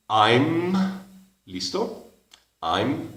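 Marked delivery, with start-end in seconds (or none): 2.6-3.1 I'm softly, lips shut on the M; closed final m. Shown as a demonstration. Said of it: "cierra bien la boca a la final". (I'm, cerrando bien la boca)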